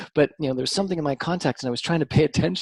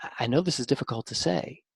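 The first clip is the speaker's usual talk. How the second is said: gentle boss; 4 dB quieter than usual. Retold or imitated. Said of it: "the people who said".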